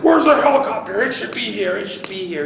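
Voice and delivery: loud high impatient demand, fading by the end; an angry staff sergeant barking for the late helicopter; impatient mad. Retold or imitated. Staff sergeant demanding the late helicopter, loud and angry. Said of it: "like, just mad".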